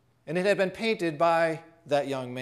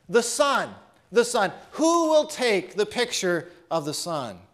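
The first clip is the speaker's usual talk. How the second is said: auctioneer's call; 2 semitones higher than usual. Acted. Auctioneer calls for a bid.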